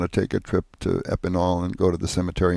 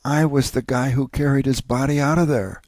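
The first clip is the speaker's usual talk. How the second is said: higher, choked with emotion; fighting back tears as he says it; tearful, voice breaking; 5 semitones higher than usual. Retold or imitated. Old sergeant tells veteran's son, near tears. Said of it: "we both start bawling".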